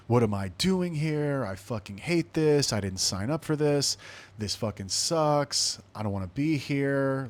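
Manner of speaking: retold bawling. Retelling breaking down in front of the sergeant, mild mock bawling. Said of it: "I just started bawling".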